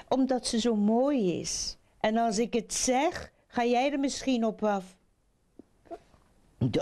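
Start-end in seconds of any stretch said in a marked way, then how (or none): 0.1-5.0 put-on higher-pitched young frog; verliefde jonge kikker. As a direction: explain it in a high lovestruck-frog voice. Young frog explains his secrecy. (hogere stem van de verliefde jonge kikker)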